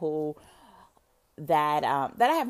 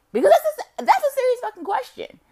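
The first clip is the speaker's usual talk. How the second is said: much higher and louder, cracking up mid-line; laughing exclaim; 10 dB louder, faster than usual. Real, not acted. Cracking up over her own question, loud and high.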